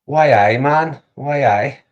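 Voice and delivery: hammed-up Geordie catchphrase; put-on Geordie accent. Shown as a demonstration. Asked to do a Geordie accent, mock Geordie. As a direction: have a go at sounding Geordie. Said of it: "Do a Geordie accent".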